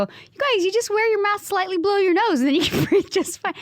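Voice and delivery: mock advice. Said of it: "And I go".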